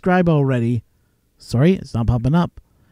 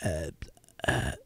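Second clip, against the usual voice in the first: halting mock hesitation, trailing off softer; imitated flummoxed stammer; 11 semitones lower, 15 dB quieter than usual. Telemarketer baffled by a prank caller, flummoxed stammer. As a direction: play someone lost for an answer. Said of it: "the guy was flat out did not know".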